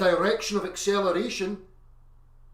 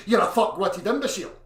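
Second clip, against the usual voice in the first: louder, spat-out insult; raised angry put-down; 7 dB louder than usual. Shown as a demonstration. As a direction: yell it at them. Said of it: "Or if I say".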